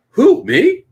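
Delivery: high, loud, playful disbelief; mock surprise. Vendor accused at a convention, mock-innocent surprise. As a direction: squeak it out as if wrongly accused.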